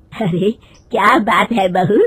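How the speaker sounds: lightly voiced old mother-in-law, slow and probing; unhurried, nosy elder of the house. Mother-in-law questioning her daughter-in-law, lightly voiced slow probing.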